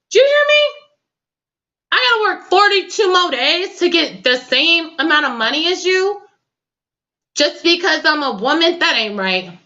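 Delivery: high-pitched, incredulous protest; indignant. Real, not acted. Host challenging listeners over unequal pay, high indignant outburst.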